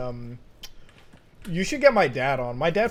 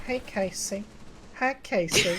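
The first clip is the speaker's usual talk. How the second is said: high-pitched put-on voice calling a greeting; amateur impression, pitched up; Chris voice; 8 semitones higher, 3 dB quieter, slower than usual. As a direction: do a not-that-good impression in a raised voice. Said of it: "I can't do a good Chris voice".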